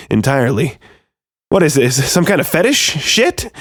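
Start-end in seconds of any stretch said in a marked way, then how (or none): 1.5-3.5 desperate. A narrator's reading. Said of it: "I said desperately".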